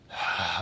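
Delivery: soft, audible exhale; relaxing sigh. Shown as a demonstration. Yoga teacher leading final relaxation, soft sigh. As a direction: breathe out to settle down.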